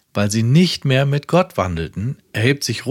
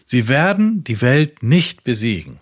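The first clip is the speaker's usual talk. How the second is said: raised, ringing sermon voice; preaching; 4 dB louder than usual. Acted. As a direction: proclaim it like a revival preacher. Reads Branham sermon quote.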